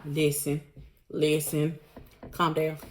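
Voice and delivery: soothing plea. Retold or imitated. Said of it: "Safari was like".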